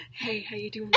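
very soft, playful whisper; hushed mock come-on. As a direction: murmur it right into the ear. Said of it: "I'm whispering".

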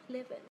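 "living" said joined, v running into the ending; linked v and n. Shown as a demonstration. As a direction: softly repeat "living" as one linked word. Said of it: "em nối luôn với n thành living".

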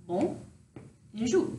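"Bon" and "jour" said apart with pauses; syllable by syllable. Shown as a demonstration. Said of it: "So phonetically".

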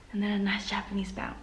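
hurried hushed aside; quick whispered instruction; fast whisper. Real, not acted.

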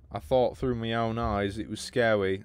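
slow, put-on British voice; mock British reading, drawn out; British accent. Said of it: "I imagine you are British".

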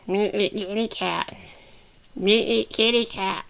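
lightly voiced baby creature; Grogu. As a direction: play a cat-hungry puppet in simple baby talk.

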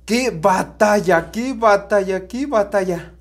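slow, loud commentator hype; wrestling commentator. Acted. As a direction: call it like a ring announcer. Celebrating the won battle. (comentarista de lucha libre)

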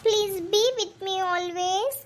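slow, drawn-out teary pleading; wife pretending to weep to win him over; fake crying plea. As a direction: put on tears to sway her husband. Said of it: "ಅಳ್ಬೇಡ".

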